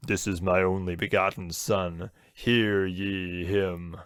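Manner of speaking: slow, booming God voice. Retold or imitated. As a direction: intone it like God from heaven.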